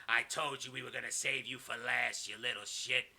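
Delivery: lightly voiced villain boss, slow and deliberate; mock threat turning into measured orders; a touch of menace; Kevin Sullivan. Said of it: "and he goes".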